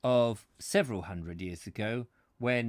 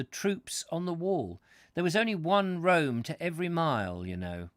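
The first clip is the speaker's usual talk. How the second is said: high-pitched centurion recounting army songs; Roman centurion; 6 semitones higher, 5 dB louder than usual. Acted. Centurion tells visitor about songs on the wall, character voice. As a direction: play the old soldier, voice pitched up.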